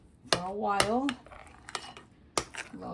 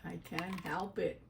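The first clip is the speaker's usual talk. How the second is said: talking while chewing; mouth full. Real, not acted. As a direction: speak through a mouthful. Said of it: "speak with my mouth full".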